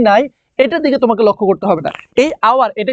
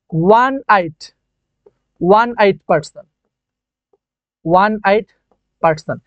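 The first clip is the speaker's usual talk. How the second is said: slowly sounded out; slower than usual. Shown as a demonstration. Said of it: "এখানে কিন্তু এই যে এ হবে".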